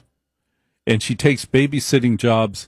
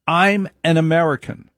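a hint of a high grandmother voice; lightly pitched-up proud grandmother; grandmother's insistence; 5 semitones higher than usual.

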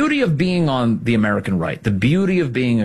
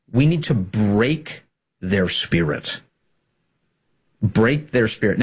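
slow ominous repeat; slower than usual. Retold or imitated. Repeating quote for emphasis.

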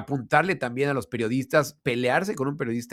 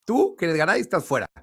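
mock Florentino; 6 semitones higher than usual. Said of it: "tú le dices al oído algo".

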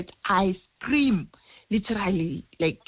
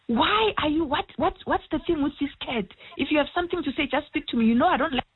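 higher-pitched, mildly pleading questioning; lightly acted, puzzled reproach, pitched up; retold plea; 7 semitones higher, faster than usual. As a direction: retell an upset appeal to a son. Retells questioning late son about cat.

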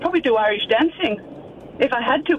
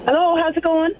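lilting Irish greeting, a little higher; Irish accent; 4 semitones higher than usual. Pretend. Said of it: "bit of an accent".

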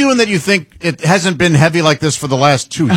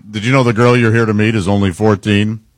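Chris Hansen impression; 6 semitones lower than usual. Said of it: "some of those Chris Hansen things".

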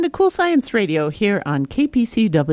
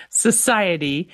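normal talking voice

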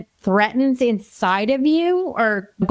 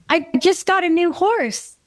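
put-on light child voice, pitched higher; little niece; 5 semitones higher than usual. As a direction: play the five-year-old niece, proud. Uncle voices five-year-old niece.

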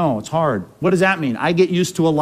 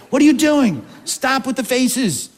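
high, then slow exasperated parent scolding; a fed-up parent stopping the sulking; 7 semitones higher than usual. Pretend. Pastor voicing a fed-up parent at a sulky kid, exasperated scolding.

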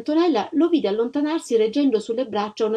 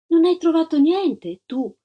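politely; 7 semitones higher, 4 dB louder than usual. A narrator's reading. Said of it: "con garbo".

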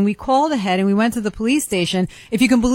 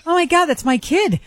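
retold alarm; 8 semitones higher than usual. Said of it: "And then I go".

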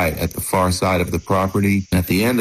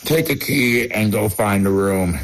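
sleepy, yawning reply; 2 semitones higher than usual. Retold or imitated. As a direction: answer through a yawn. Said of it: "he yawned".

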